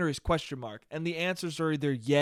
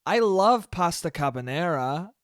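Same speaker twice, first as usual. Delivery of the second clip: mock excited squeal; 3 semitones higher, slower than usual. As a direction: imitate a gushing girl's squeal. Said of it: "and just screamed".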